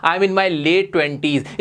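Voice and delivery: stretched very slowly, each word apart; slow model phrase. Shown as a demonstration. Teacher modelling a new phrase for students, very slow. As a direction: draw the phrase out for the class. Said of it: "तो आप बोल सकते हो".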